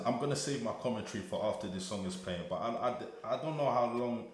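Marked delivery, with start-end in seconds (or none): 2.5-4.3 high, loud, stammering amazement; overwhelmed, stumbling and restarting, words running out; lost for words. Real, not acted. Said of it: "I can't even speak".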